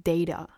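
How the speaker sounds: "Data." said tayta, ay as in day; long ay "Data.". Shown as a demonstration. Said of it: "I don't know if data or data is British English".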